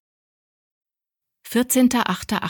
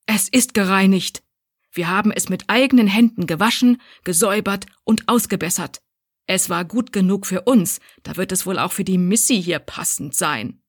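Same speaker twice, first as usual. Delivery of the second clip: dripping with anger. Acted. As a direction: let the anger drip from every word. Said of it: "Corinnas Stimme triefte vor Zorn".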